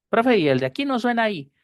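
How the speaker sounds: high-pitched pretend pupil; imitated student question.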